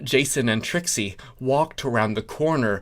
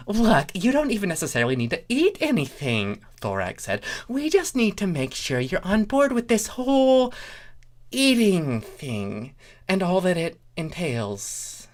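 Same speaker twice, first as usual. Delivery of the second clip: higher, pompous secret police officer; a hint of a smug bureaucrat; lightly voiced officious changeling; 7 semitones higher than usual. A narrator's reading. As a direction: play him self-important and quick. Thorax voice.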